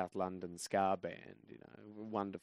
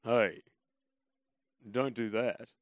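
calm warning; 6 dB louder, slower than usual. Retold or imitated. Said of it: "I very calmly stood up and said".

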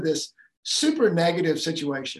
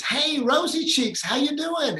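high, slow, cheerful fatherly greeting; dad greeting daughter; 10 semitones higher, 3 dB louder than usual. Retold or imitated. Tired dad lifts his voice for his youngest daughter, high and bright. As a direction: greet the little girl brightly.

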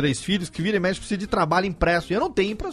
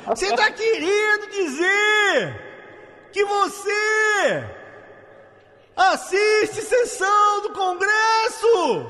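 much higher, very slow, outraged shouting voice; hammed-up impression of an outraged interviewer; Gustavo Mendes intonation; 10 semitones higher, much slower than usual. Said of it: "vou fazer a entonação do Gustavo Mendes agora".

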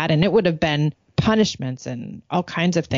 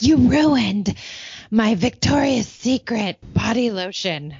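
higher mock outrage of a mad teenager; angry teen; 4 semitones higher, slower than usual. Mad teenage daughter accusing mom over ruined lotion, mock angry. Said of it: "like, mad".

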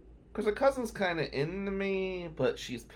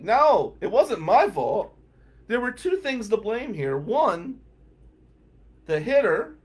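raised, insistent argument; indignant self-defense; 5 semitones higher, 3 dB louder than usual. Retold or imitated. Comic rejecting blame for the injury, indignant. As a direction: count off the points in rising protest.

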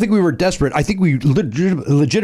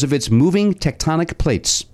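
quiz question read-out; 2 semitones higher, slower than usual. Acted. Reads out the trivia question.

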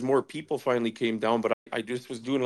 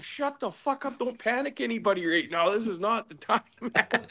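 urgent hush; 9 semitones higher than usual. Retold or imitated. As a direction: hiss it down to keep others calm. Speaker retells silencing panicking man.

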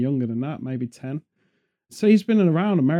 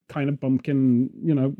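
put-on Welsh accent; 3 semitones lower than usual. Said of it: "I don't know why I went Welsh".

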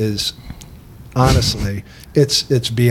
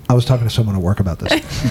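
sultry voice. Shown as a demonstration. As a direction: purr it like a sexy ad. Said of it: "In the sultry voice".

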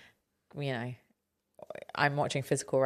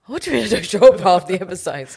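loud, indignant, playfully offended; mock outrage; 4 semitones higher, 13 dB louder than usual. Co-host teasingly protests the host's jab, loud mock outrage. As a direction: act scandalized by the jab.

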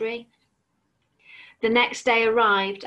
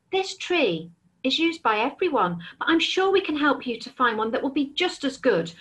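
timid; 4 semitones higher than usual. Acted. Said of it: "said Hedgehog timidly".

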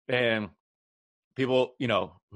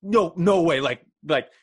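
mock outraged protest; 9 semitones higher, 5 dB louder than usual. Retelling angry teammate's protest.

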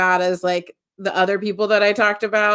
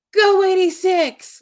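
imitated yell; 11 semitones higher than usual. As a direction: imitate a fan hollering for a player, voice pitched way up. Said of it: "would just yell".

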